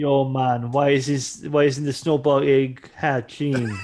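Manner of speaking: slow, hammed-up Jamaican accent; a clumsy, overdone Jamaican accent; bad Jamaican accent. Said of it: "the worst Jamaican accent you've ever heard".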